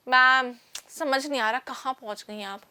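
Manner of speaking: mock bewildered pupil; confused student. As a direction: play a student who can't follow, trailing low. Teacher voices a lost, confused student.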